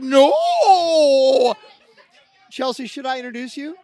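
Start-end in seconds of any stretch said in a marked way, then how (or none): 0.0-1.6 mock protest. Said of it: "she's like".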